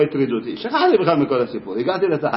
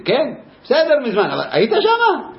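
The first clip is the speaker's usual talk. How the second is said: insistent pupil; 10 semitones higher, 3 dB louder than usual. Retold or imitated.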